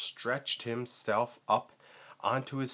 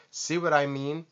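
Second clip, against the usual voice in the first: high shouted boast; 6 semitones higher than usual. A narrator's reading. Vulture shouts at friends to show off his smile. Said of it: "he shouted".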